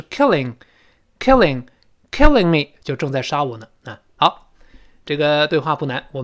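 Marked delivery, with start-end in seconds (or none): 0.0-2.7 "killing" slow, with a lax first vowel; short i in killing. Shown as a demonstration. Teacher repeats for learners, "killing" with relaxed short i. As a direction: drill "killing" slowly, keeping the first i short. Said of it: "所以在那ing是killing".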